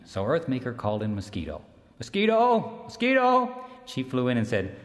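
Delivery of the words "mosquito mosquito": high, loud call across distance; summoning call, high and loud. Acted. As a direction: shout her name out to summon her. Earthmaker calling out loudly.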